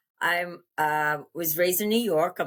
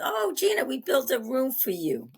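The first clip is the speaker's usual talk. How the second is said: lightly voiced doting mother; a hint of a sweet Italian mom; mother's voice; 6 semitones higher than usual. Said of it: "little Italian mother, says".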